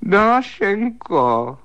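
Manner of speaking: high, drawn-out call into the dark. Acted. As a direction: call her name loudly, stretching it. Calling into the dark bedroom.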